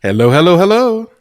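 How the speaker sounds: cave echo. Pretend. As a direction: call it out like an echo. Echoing greeting call.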